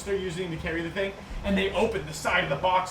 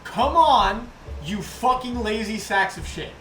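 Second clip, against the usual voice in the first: angry boss tirade; 4 semitones higher, 4 dB louder than usual. Acted. Goblin boss berating his workers.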